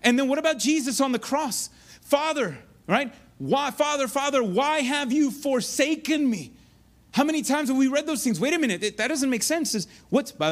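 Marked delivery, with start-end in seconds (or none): 2.0-2.6 higher-pitched, imitated cry to a father; lightly acted anguished appeal; seemingly scared plea. Jesus calling to his Father on the cross, imitated anguish. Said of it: "is he scared?". 3.4-6.5 higher, drawn-out imitated cry of abandonment; seemingly scared plea. Jesus on the cross asking his Father why, imitated anguish. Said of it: "is he scared?".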